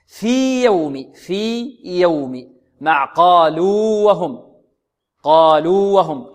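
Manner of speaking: في يوم said slowly with both ي kept separate; قالوا وهم with the two واو apart, slow; clear double letters. Shown as a demonstration. Teacher demonstrates Ibn al-Jazari's examples slowly. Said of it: "ما معنى أبن؟ أظهر".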